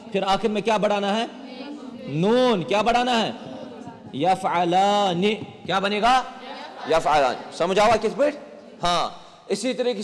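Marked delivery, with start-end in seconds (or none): 4.1-5.2 drawn out, syllable by syllable; slowly built up. Shown as a demonstration. Teacher assembles the verb form for students, slowly syllable by syllable. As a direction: stretch یفعلان slowly, each part separate.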